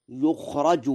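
"يخرج" with u on the ya and a on the ra; Warsh's passive reading. Shown as a demonstration. Lecturer shows listeners how Warsh read it, "يخرج" as yukhraju. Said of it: "بضم الياء وفتح الراء مبنيا".

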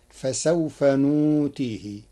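نوتيه with the hamza replaced by a long u, slow; Warsh reading. Shown as a demonstration. Teacher demonstrating the Warsh recitation, نوتيه said slowly without hamza. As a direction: say نوتيه as nūtīhi, no glottal stop. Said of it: "بإبدال الهمز واوا للتخفيف".

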